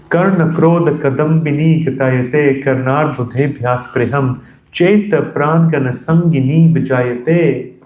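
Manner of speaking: measured, even recitation of the verse; Sanskrit verse recitation. Acted. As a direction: intone the Sanskrit lines steadily.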